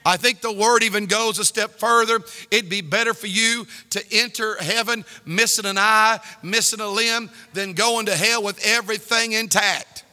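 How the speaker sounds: ordinary talk, nothing marked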